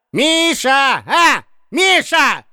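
put-on old man yelling at a sobbing friend; urgent shout. A narrator's reading. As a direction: shout him out of his hysterics.

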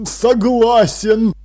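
slow, drawn-out concession with a mild sigh. A narrator's reading. King concedes to Jern, sighing. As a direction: agree with a touch of resignation. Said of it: "вздохнул царь".

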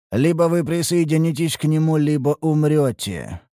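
put-on a dark power speaks through the boy; otherworldly voice. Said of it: "потусторонним голосом".

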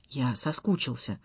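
soft, low sigh of longing. A narrator's reading. Husband missing his wife, soft sigh. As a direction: breathe it out with a sigh. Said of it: "вздохнул Стас".

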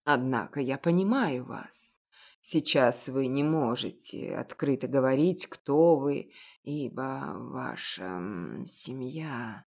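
put-on an elderly shopkeeper, knowing and gentle; a hint of a kindly old baker; old confectioner.

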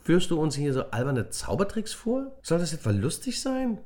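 put-on girl scolding the boys for a silly trick; annoyed girl. A narrator's reading. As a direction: tell them off, fed up. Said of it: "stemmte die Hände in die Hüften".

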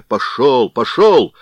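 shouting. Acted. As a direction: chase him off with a shout. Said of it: "кричал кузнец".

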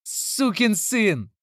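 put-on enraged boy screaming high; boy's shout. A narrator's reading. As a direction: scream it at the stepfather, slowly. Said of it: "закричал Билли".

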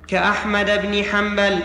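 حنبل stopped on a bare l, hanbal; unvowelled final lam. Real, not acted. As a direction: end حنبل on l with no vowel. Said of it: "حرك اللام". (حنبل بتسكين اللام)

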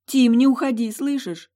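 high, loud desperate cry to a dying love; begging him not to leave; desperate plea. Acted. Heroine pleading over dying Tim, high desperate cry.

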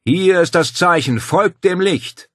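hoher, lauter, gedehnter Ruf; dumpfe Geisterstimme. A narrator's reading. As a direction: wie ein Höhlengeist feierlich herbeirufen. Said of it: "Die dumpfe Stimme rief". (langsam ausklingender Geisterruf)

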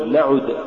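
نعد with a pure u after the ayn; light damma. Shown as a demonstration. Tajweed teacher giving the form to say, light damma. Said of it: "قل".

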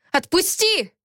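high, urgent demand; voiced protest, pitched well up; angry hissing. A narrator's reading. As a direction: struggle to break free. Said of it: "зашипела я".

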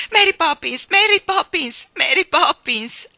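loud, high repeated calls; urgent call, last one drawn out. A narrator's reading. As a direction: shout for someone missing through the house. Searching the rooms, calling her.

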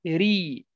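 "ري" with a thin, light r; light rii. Shown as a demonstration. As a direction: demonstrate the softened r in "ري". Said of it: "إن كانت مكسورة ترقق".

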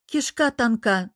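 usual speaking voice

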